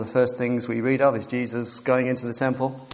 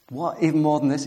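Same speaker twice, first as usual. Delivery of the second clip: surprised; 4 semitones higher, 3 dB louder than usual. Pretend. Imagined incredulous listener.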